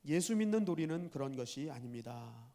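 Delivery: lightly voiced earnest servant; low, measured, deferential reply; servant's answer. Groom correcting his mocking master, lightly voiced and respectful. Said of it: "이렇게 대답을 합니다".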